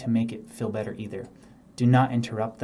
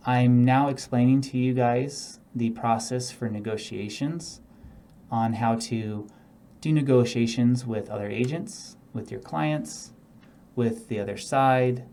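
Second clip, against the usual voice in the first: monotone. Shown as a demonstration. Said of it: "now I'm showing you a very monotonal process".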